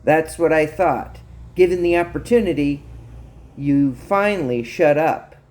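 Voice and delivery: self-satisfied, pointed put-down; smug. Acted. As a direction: gloat that you have won. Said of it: "she said smugly".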